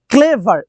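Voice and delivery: ক্লেভার slowly split into ক্লে, ভার; two separate syllables. Shown as a demonstration. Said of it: "মানে two syllable".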